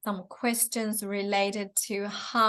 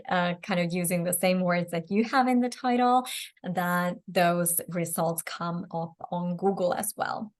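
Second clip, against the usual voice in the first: tired, strained hoarse voice. Real, not acted. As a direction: voice going hoarse from talking. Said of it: "I'm losing my voice".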